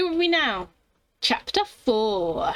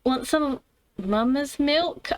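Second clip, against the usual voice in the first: reluctant read; 3 semitones higher, slower than usual. Acted. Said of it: "I wish I did not have to read that out loud".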